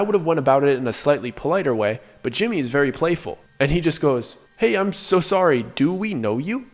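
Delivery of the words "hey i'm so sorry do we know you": mock-polite query, pitched higher; playfully questioning. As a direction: imitate a friend's playful, questioning apology. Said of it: "Just in a very questioning way".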